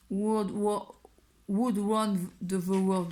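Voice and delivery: slow, halting English with a French accent. Real, not acted. Reading English slogans off the box, halting French accent. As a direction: sound out the English words slowly, in a French accent. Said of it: "Excusez-moi pour mon anglais".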